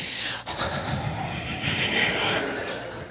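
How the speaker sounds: long, soft voiceless exhale; crowd's underwhelmed reaction. Retold or imitated. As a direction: imitate a crowd letting air out. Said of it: "the whole crowd was like".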